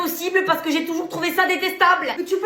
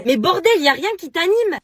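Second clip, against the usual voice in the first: louder exasperated curse; exasperated outburst; 3 semitones higher, 5 dB louder than usual. Acted. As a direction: blurt it out, fed up. Friend exasperated. (juron exaspéré, plus fort)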